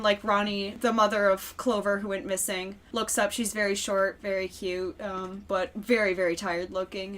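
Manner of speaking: ordinary talk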